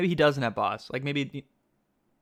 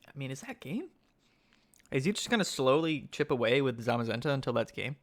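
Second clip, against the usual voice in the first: whisper. Real, not acted. Streamer hushed over tense game.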